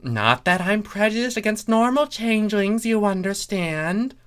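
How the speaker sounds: a hint of a smug bureaucrat; lightly voiced officious changeling. A narrator's reading. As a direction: play him self-important and quick.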